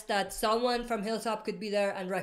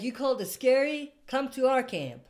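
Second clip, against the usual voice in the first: badly faked Southern accent; terrible accent; 3 semitones higher than usual. Host imagining Alpha inviting someone to camp, in a terrible Southern accent. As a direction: attempt a Southern accent, not very convincingly. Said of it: "That was a terrible accent".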